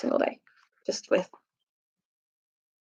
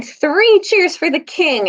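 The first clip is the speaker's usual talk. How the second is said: slow, higher call to the crowd; rousing cry; 8 semitones higher, slower than usual. Acted. Byrne rallying the soldiers to hail Caspian, rousing cry. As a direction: lead the cheer for the king. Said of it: "immediately cried".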